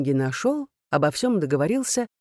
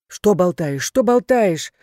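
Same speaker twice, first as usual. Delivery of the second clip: indignant raised voice; yelling; 3 semitones higher, 6 dB louder, slower than usual. A narrator's reading. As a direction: yell at him, pushing up the second time. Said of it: "заорала Танька".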